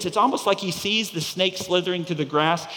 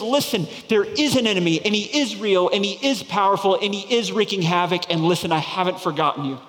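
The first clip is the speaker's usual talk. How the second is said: emphatic preaching; 2 semitones higher, 3 dB louder than usual. Acted. God's reassurance, preached.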